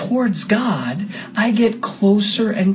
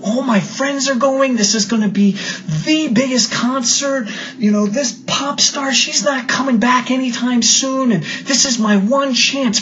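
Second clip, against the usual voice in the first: put-on higher, pleading teen protest; angry son; 5 semitones higher than usual. Son arguing with his mom about the concert, high and upset. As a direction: push back hard like an upset teenager. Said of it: "the son becomes really angry".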